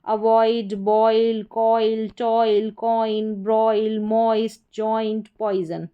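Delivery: अवॉइड, बॉयल, कॉइल with a clear "oy" glide; "oi" sound demonstrated. Shown as a demonstration. Teacher reads example spellings to students, stressing the "oy" sound. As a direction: list the words, sounding ओआई as ऑय. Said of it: "ओआई को ऑय करके पढ़ा जाता है".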